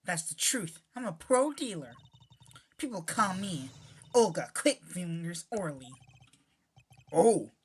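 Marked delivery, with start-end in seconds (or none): 0.0-5.9 hammed-up fake Russian accent, loud opening; a card dealer boasting in a bad Russian accent; poor Russian accent. Witness introduces herself to court, in a hammed-up Russian accent. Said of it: "me having a poor Russian accent".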